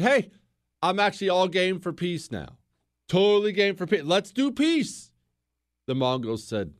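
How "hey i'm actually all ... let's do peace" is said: hammed-up eager offer, pitch climbing higher to the end; mock eager peacemaker. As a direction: play a ruler suddenly all too keen for peace. Enemy ruler retold suing for peace.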